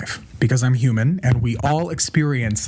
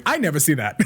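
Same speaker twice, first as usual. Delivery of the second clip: laughing; 4 semitones higher than usual. Real, not acted. Speaker laughing at her own joke to viewers. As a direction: laugh through the line.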